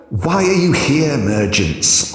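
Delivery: blunt. A narrator's reading. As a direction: ask it bluntly. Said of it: "Omnia asked bluntly".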